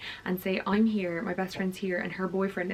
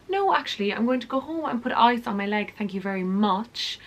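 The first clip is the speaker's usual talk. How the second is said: imagined blunt retort; 2 semitones higher, 4 dB louder than usual. Pretend. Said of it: "I didn't say that, obviously".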